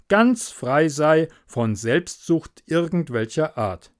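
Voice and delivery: a lightly voiced, self-pleased miller, loud on his own gain; the smug miller wheedling a favour; greedy miller. The miller to Hans about the plank, smug and wheedling.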